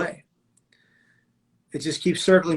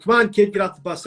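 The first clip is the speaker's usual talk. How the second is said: retold calling out; 5 semitones higher than usual. Bus driver to the last kid aboard, retold calling out. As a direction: briefly imitate a driver calling to a passenger. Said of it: "The bus driver called out to me".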